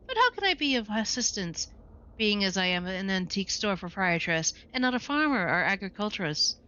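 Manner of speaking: a hint of a prim, formal shopkeeper; lightly voiced haughty proprietress. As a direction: play the stiff old-fashioned storekeeper. Proprietress answers.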